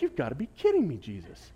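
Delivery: high, loud, disbelieving outburst; amazed exclamation. Retold or imitated. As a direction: blurt it out in happy disbelief. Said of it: "I'm like".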